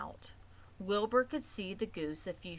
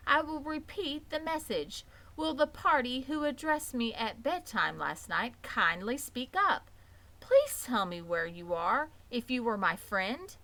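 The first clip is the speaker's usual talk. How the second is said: raised, pleading announcement; loud call; 5 semitones higher, 4 dB louder than usual. Acted. Pig repeating his message to the barn, loud. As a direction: call out to the hidden friend. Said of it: "repeated announcement".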